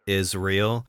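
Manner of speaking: "Is real" said low and soft, like Israel; punning repeat. Shown as a demonstration. Commentator pointing out the pun to viewers, "Is real" low and soft. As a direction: drop "Is real" quietly, rising at the end. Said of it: "See what I did there?".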